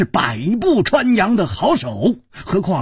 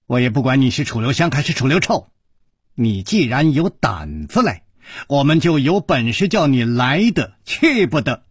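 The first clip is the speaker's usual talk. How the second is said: fast, mildly harsh scolding; stern rebuke; 3 semitones lower than usual. Acted. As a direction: cut him off quickly, a touch of menace. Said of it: "厉声说".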